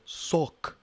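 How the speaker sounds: high puppet voice calling a name; high squeaky voice. Acted. Calling Sock again.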